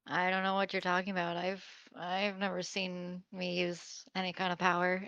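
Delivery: quick, feigned innocence; innocent denial. Acted. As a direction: play dumb, fast. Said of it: "Blythe is gonna be like".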